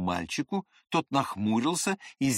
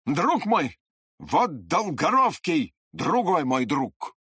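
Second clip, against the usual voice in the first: solemn; 4 semitones higher, 4 dB louder, slower than usual. A narrator's reading. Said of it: "важно и серьёзно проговорил Длинный".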